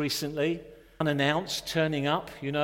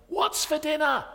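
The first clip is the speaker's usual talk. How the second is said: high, loud calling up the stairs; husband shouting up to his wife, high and loud; shouted question; 12 semitones higher, 5 dB louder than usual. Retold or imitated. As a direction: yell it up from the attic. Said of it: "he shouted to his wife".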